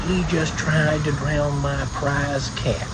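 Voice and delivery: slow, aggrieved retelling of an accusation; mad grandfather. Retold or imitated. Grandfather accusing the boy to his mother, mildly mad. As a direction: spell out the offence, mildly mock-indignant. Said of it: "He was mad as hell".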